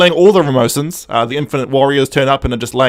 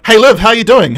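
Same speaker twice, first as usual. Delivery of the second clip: cheery hail; 6 semitones higher, 6 dB louder than usual. Retold or imitated. Acts Doctor hailing Liv on return.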